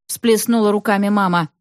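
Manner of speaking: ordinary delivery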